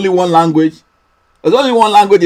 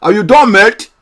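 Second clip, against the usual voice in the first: mock Scottish; 4 dB louder than usual. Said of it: "Or, or, or Scottish".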